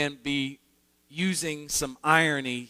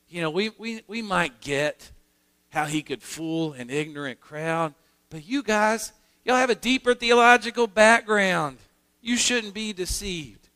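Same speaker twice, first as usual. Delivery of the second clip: mock Pharisee scolding; 3 semitones higher than usual. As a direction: scold the officers like a superior. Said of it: "to essentially say".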